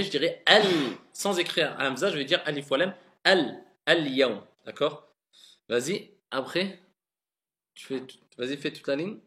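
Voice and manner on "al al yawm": al-yawm started afresh on a clear "al"; slow, separate "al" opening al-yawm; zonder verbinding. Shown as a demonstration. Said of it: "si je commence par la journée".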